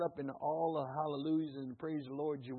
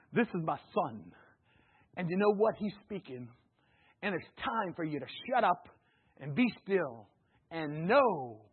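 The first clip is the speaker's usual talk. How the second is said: lightly voiced God. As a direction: speak as God, measured and firm. God's voice continues, paraphrased.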